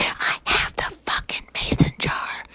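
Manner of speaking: strained, slow, whispery mock wail; mock tearful exasperation. Young woman fed up with self-help advice, tearfully exasperated. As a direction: squeeze it out as an imitated sob.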